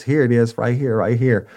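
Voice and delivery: high, loud, eager offer; eager informant. Retold or imitated. Shaking informant handing over the baggie, high and loud. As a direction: push it forward high and loud.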